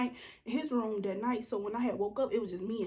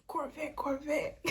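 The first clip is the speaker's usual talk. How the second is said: playful whisper; 5 semitones higher, slower than usual. Real, not acted.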